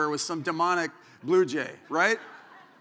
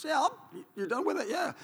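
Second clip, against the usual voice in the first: eager scrounger; 11 semitones higher than usual. Retold or imitated. Scavenging food from other campers.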